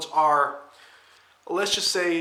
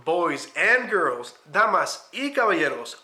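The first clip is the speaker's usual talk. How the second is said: lucha libre announcer; 3 dB louder than usual. Acted. Channel intro, announcer opening.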